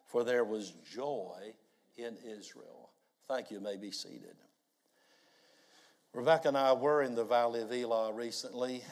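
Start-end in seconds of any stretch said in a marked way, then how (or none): 0.1-2.9 congregation reading it aloud again; many voices in unison. Real, not acted. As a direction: read it out together once more. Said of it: "Would you read it again".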